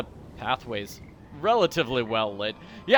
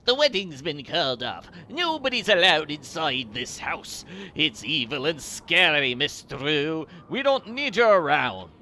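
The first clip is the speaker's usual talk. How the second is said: put-on wobbly, imperfect Irish accent, louder; attempted Irish accent; 5 dB louder than usual. Player mimics the angry caretaker turning Nancy away, attempted Irish accent. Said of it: "an Irish accent".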